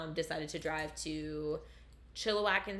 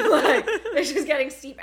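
slow, higher words pushed through laughter; laughing through words; 8 semitones higher, 12 dB louder than usual. Real, not acted. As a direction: say it while still laughing. Laughing while telling it.

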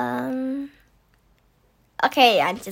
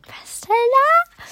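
whisper; 13 semitones higher, slower than usual. Real, not acted. Puzzled aside during guessing game.

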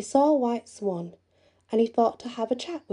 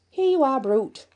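defiant call; 5 semitones higher, 4 dB louder than usual. Acted. Jack defies the giant.

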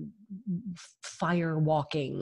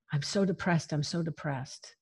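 mock-dejected; 7 dB quieter than usual. Daughter telling mom how she feels, understated dejection. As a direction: repeat it softly, sinking away at the end. Retelling her complaint to mom.

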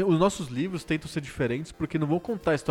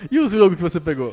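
louder, laughing question; 4 semitones higher, 7 dB louder than usual. Real, not acted. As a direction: ask while still laughing.

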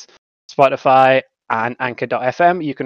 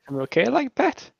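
high, softer mock-Geordie lilt; Geordie accent; 10 semitones higher, 5 dB quieter than usual. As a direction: give in to a playful Geordie accent. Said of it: "trying not to do a Geordie accent".

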